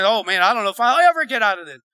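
quick, lightly acted worried grumble; discouraged believer. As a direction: voice a doubter losing heart. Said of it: "let's talk about your circumstance".

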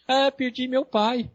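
slow, loud, high mock sob; retold crying. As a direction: imitate a weepy patient, drawn out. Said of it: "começou a chorar". (choro imitado, lento e agudo)

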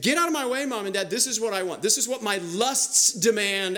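acted bratty insistence to parents; defiant demand. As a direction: push back like a willful son. Samson defying his parents, acted.

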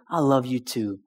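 God answering gently in prayer; gentle God's voice. Retold or imitated. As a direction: say it softly, like a loving father. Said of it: "I felt the Lord say".

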